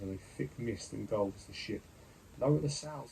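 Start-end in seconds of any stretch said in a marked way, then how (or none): 2.4-3.1 loud high roaring order. A narrator's reading. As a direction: bellow the order across the deck. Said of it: "the captain roars".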